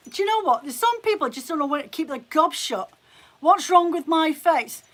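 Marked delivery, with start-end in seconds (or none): 3.4-4.8 slow, louder indignant challenge. Real, not acted. Streamer answers a commenter rude about her face, indignant. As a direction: throw the question back, affronted.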